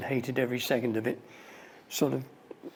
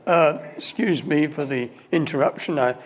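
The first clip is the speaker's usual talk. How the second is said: louder, curt polite reply; polite guide; 6 dB louder than usual. Retold or imitated. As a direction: brush off the interruption politely. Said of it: "I guess he says".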